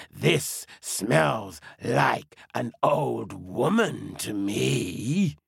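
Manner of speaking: slow, sniffing lion. Acted. Lion speaks slowly.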